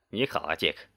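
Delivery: low, soft, mild warmth; smiling greeting. A narrator's reading. Police chief waking to greet his rescuer, smiling gently. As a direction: greet him gently with a quiet smile. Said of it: "他微笑着说".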